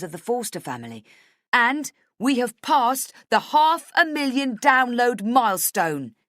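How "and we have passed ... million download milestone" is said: high, loud, slow triumphant yell. A narrator's reading. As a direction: shout the news to the whole room. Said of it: "he yells".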